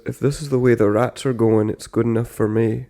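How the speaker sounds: light Irish lilt from a film; understated Irish film-line imitation; Irish accent. Recalling a Titanic line learned as a kid, Irish accent. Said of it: "this line that I could do".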